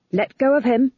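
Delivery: a knife at his neck; Magrat threatening. Acted.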